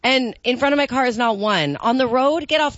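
high sweet princess voice. Acted. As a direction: talk sweetly to the bunnies like a princess. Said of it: "my little princess voice".

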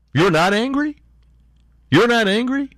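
high-pitched disbelieving question, rising sharply; incredulous. Real, not acted. Angry host challenging his listeners, incredulous. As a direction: ask it as if you cannot believe it.

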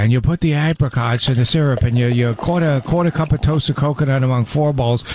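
lightly voiced barbecue guy pitch; barbecue guy impression. Cooking partner mimics the barbecue host, lightly voiced. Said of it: "here's where I do my barbecue guy impression".

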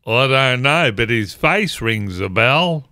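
lightly put-on French accent; a joke punchline in a mock French accent; hint of a comic Frenchman's accent. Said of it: "in the best French accent possible".

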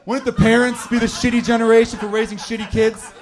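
punchier second take, projected to the crowd; emphatic corrected retake. Real, not acted. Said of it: "Let's not fuck that up".

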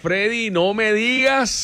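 slow, stretched "no me digas"; teasing, stretched disbelief; mock-shocked, slow; drawn-out disbelief. Real, not acted. Friend reacting to story.

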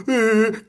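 high mock wail; hammed-up crying noise. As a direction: imitate people whining in tears.

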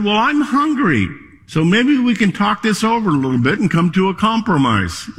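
a cheeky bear bargaining through a chuckle; talking bear, amused. Acted. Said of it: "talking bear".

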